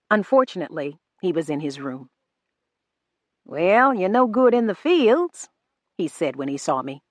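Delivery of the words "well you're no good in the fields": 1 Rufus voiced. A narrator's reading. Rufus taunts narrator.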